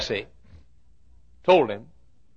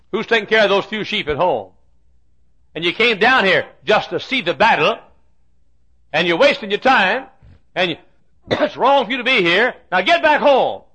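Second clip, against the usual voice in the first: put-on scolding older brother; 3 semitones higher than usual. Oldest brother voiced scolding David.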